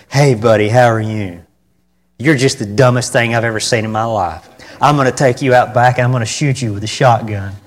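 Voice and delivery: cheerful friendly voice over harsh words; friendly tone to dog. Shown as a demonstration. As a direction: say cruel words in a sweet, friendly tone. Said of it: "you can look at your dog and you can say".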